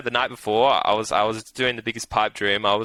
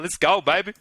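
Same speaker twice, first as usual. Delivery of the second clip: high, hyped-up cheer; excited cheer; 9 semitones higher than usual. Retold or imitated. Cheering his horse winning the leg, hyped and high. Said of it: "started getting pretty excited".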